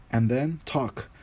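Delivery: half angry, half curious push; impatient order. Acted. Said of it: "ordered the master, partly out of anger".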